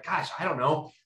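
a hint of a boss grasping for orders; lightly voiced flustered manager. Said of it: "grasping for things like".

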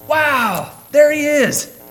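high, loud starstruck gasp; awestruck wow. Retold or imitated. Preacher mimicking a starstruck fan, high and loud. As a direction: gush like seeing a celebrity. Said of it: "Was that his response?".

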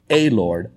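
"a" said as a full "ay"; stress on "a". Shown as a demonstration. Preacher showing what verse doesn't say, stressed "a". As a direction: set "a" apart before "Lord". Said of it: "It doesn't say".

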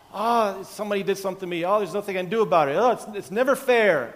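lightly hammed-up complaining victim; victim mode whine. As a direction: whine like a self-pitying victim. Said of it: "we just go into victim mode".

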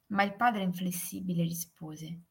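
plain reading voice

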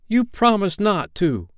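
high, slow accusation; hurt child's high-pitched reproach; reproachful boy. A narrator's reading. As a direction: protest a broken promise, drawn out. Peter reproaches grown-up Wendy.

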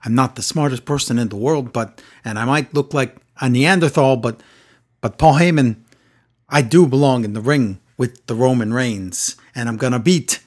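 a hint of Cesaro, deliberate and dopey; Cesaro impression. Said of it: "He was a little bit Pat Patterson at the end there".

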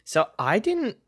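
guilty whisper; hushed, sheepish confession. Real, not acted.

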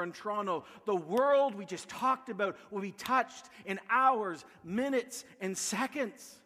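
emphatic sermon delivery, punching key words; impassioned preaching. Acted. Pastor urging his church to reach the nations, impassioned preaching. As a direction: preach it with urgent conviction.

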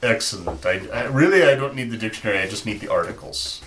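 put-on Russian accent. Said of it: "call up my Russian accent".

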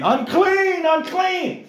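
loud high cry of unclean; shouting unclean. Retold or imitated. Leper warning a crowd, loud high shout. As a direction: call out a warning to keep people back. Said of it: "yell out saying".

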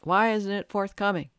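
mock egoic self. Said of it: "that egoic or small s self says".

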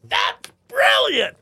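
high, slow, gushing praise; excited. Retold or imitated. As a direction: gush like an amazed fan. Mock excited tech crowd.

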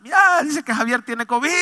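imitated gossip in high alarm; scandalized relative. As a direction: pass on shocking news, imitating the family. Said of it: "la familia escandalizada".

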